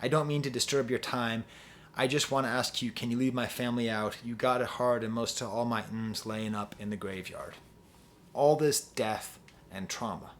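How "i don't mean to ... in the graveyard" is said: lyrics read low and hushed; reciting sad rap lyrics softly; quoting lyrics. Retold or imitated. Reading the rapper's lyrics to the camera, low and hushed. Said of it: "I say".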